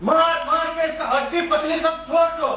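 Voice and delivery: high-pitched vicious command; angry order. Acted. Interrogator ordering his men to break bones, angry.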